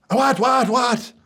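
jolted out of a daydream; startled husband. Retold or imitated.

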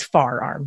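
forearm said as "far arm"; Philly-area pronunciation. Shown as a demonstration. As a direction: say FAR in place of FORE in far arm. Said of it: "which is bizarre".

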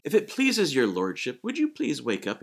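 overly formal, polite request; mock niceties. Disciples imagined politely waking their Lord, mock courtesy. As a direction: put on courtly politeness as a joke. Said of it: "there's no niceties there".

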